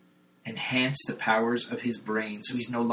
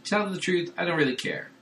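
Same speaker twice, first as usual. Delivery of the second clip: robot body voice; 7 semitones higher than usual. Retold or imitated. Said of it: "And the body's like".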